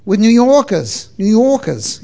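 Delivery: r-dropping New York "Yorkers"; playful attempt at a New York accent. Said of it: "so confused with my accents".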